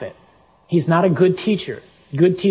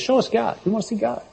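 pleading paraphrase; 8 semitones higher, faster than usual. Retold or imitated. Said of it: "In other words".

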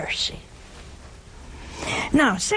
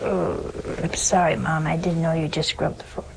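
lower, subdued apology in one tone; sheepish son; 5 semitones lower than usual. Acted. Son apologizing to mom over muddied floor, mildly sheepish. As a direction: lightly voice a contrite son, low. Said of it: "he looks down and says".

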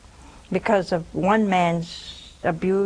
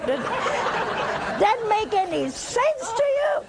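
high, slow laughing question; 13 semitones higher, much slower than usual. Real, not acted. Nun laughing at viewers who trust horoscopes, laughing. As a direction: laugh through the words in disbelief.

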